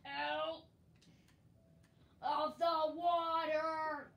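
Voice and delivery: loud, drawn-out yell; shouted order. Real, not acted. Player orders the other out of the water, loud shouting. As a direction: bellow the order, stretching it out.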